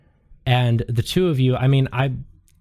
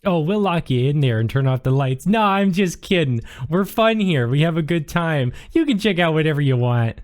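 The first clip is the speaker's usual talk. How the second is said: higher, chirpy librarian making a little joke; joking sweet librarian; 4 semitones higher than usual. Acted. Librarian kids a visitor about lending, sweet and higher-pitched. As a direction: tease the visitor, then cheerily reassure them.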